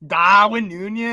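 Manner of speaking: drawn-out mock Scouse; Scouse accent. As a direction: stretch the name in a Liverpool accent. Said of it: "My Scouse accent's better".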